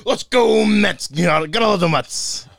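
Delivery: high, loud sports-fan cheer; excited cheer. Acted. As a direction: cheer it like a stadium crowd. Cheering for the Mets.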